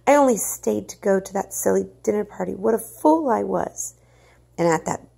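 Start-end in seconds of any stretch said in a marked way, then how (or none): 0.1-4.0 self-reproach. Acted. Mother blaming herself in panic.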